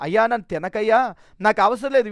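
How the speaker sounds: fed up, snapping back at him; exasperated retold refusal. Burned man refusing the returned watch, exasperated and loud. Refusing man's repeated offer.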